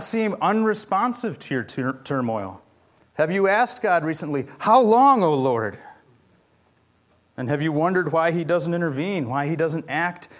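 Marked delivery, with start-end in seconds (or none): 4.6-5.8 anguished plea. Acted. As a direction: cry out to God, then let "O Lord" fall. Voicing a plea to God.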